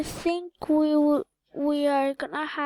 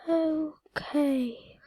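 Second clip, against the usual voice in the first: whispering. Real, not acted.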